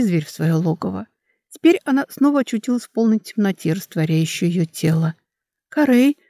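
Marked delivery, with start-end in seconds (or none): 5.7-6.2 louder, higher call through sobs; sobbing call. Acted. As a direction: call out to him while sobbing. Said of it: "всхлипывая, позвала она". (зовёт сквозь всхлипы)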